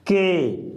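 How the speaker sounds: के said short and clear; model syllable. Shown as a demonstration. Teacher to students, demonstrating के. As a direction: sound out के. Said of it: "क्या होगा?".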